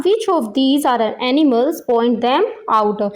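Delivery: very slow, word-by-word question reading; pronunciation model. Shown as a demonstration. Teacher reading question number one aloud, slow pronunciation model. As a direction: read it out slowly for learners to follow. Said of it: "इस question की pronunciation दी हुई है".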